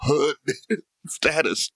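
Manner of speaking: slow, laughing mock judgement; mock onlooker. Imitating Texan onlookers, slow and laughing. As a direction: drag it out like a smug bystander. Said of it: "you're like".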